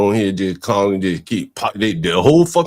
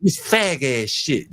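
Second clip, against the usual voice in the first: ordinary delivery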